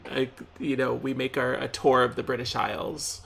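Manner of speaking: playful Scottish brogue; Scottish accent. Shown as a demonstration. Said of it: "start switching to a Scottish accent".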